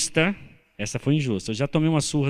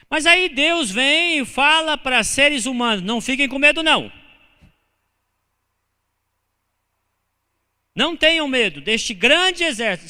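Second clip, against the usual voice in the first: full-force preaching; 10 semitones higher, 7 dB louder than usual. Acted. Pastor preaching boldly to the congregation, loud and rising.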